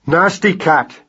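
shout. A narrator's reading. Baby mouse defies the cat, shouting. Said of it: "said Magnus with a shout".

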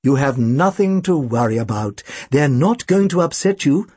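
gentle, reassuring doctor; doctor soothing his nervous patient, understated. Acted. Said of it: "continued in a soothing tone of voice".

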